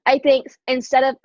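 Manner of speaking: sputtering on a swallowed drink; choking on a drink. Real, not acted. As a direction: talk while choking on a smoothie. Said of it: "I'm, like, choking on my smoothie".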